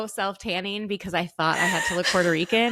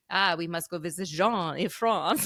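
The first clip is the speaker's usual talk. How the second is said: imitating mom. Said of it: "my mom was like".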